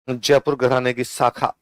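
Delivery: जयपुर घराने की शाखा said slowly, word by word; calm, measured dictation pace. Shown as a demonstration. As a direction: dictate it slowly so students can write. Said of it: "लिखो पटियाला के नीचे".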